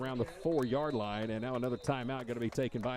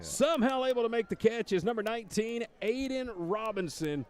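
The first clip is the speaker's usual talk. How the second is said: high, loud, still hyped; excited; 7 semitones higher, 4 dB louder than usual. Real, not acted. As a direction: carry the excitement down. Still hyped after touchdown catch.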